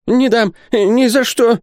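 high, drawn-out desperate wail; wailing yell. A narrator's reading. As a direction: howl as if your heart were being torn out. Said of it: "вопил в ответ торговец".

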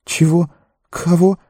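very high, bewildered questions; startled gardener. A narrator's reading. Sam caught eavesdropping, high and startled. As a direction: squeak out innocent confusion. Frightened Sam plays innocent.

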